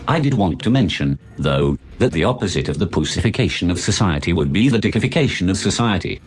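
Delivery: synthesized posh English voice, enthusiastic intonation; posh English text-to-speech with eager, swooping intonation; posh English gentleman. Pretend. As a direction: play a grand, computer-voiced English gentleman. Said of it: "synthesized voice of the most posh English gentleman".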